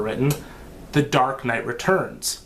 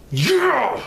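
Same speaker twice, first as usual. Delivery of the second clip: excited cheer; 9 semitones higher than usual. Real, not acted. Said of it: "That's how excited I am".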